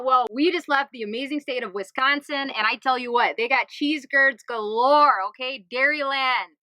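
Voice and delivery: a mock Wisconsin accent, slowed on the cheese curds; light, playful put-on Wisconsin accent. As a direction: play a lightly hammed-up Midwest Wisconsin local. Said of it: "Why do I have this accent?".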